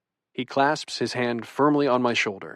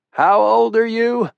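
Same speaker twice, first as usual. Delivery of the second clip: slow, gruff military interrogator; stern old colonel; 8 semitones higher, 4 dB louder than usual. Acted. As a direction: grill him like a drill sergeant. Grandfather interrogating boyfriend.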